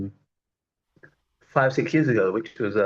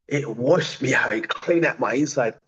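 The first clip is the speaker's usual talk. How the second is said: normal talking voice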